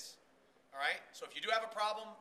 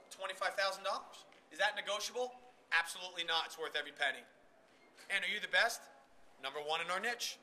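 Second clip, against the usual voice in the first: confident pitch; faster than usual. Shown as a demonstration. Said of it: "Who do you believe more? Same words".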